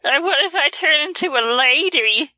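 lightly voiced sly water horse; a hint of a coaxing creature; luring water horse. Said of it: "That's the Kelpie's voice now".

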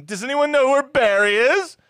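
high, loud call; shouting. Retold or imitated. Heather searching for Barry at prom, loud high call. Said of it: "hear her shouting".

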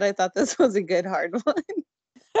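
giggling parody of her words; laughing mock echo. Mocking her line, laughing.

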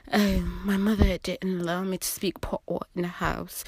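lightly voiced sedity Jamaican; mocking posh sister. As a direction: send up a stuck-up relative. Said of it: "That is not what I sound like".

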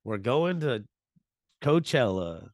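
put-on lightly done Oklahoma accent, in short pieces; understated mock Oklahoma accent. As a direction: say it with a hint of Oklahoma. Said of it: "Oklahoma people sound like".

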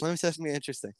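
conspiratorial whisper. Real, not acted. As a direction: lean in and whisper the secret. Teasing secret to listeners.

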